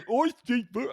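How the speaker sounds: high chirpy bird voice. Pretend. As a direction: squeak it like a little bird. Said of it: "I shouldn't spoil my voices".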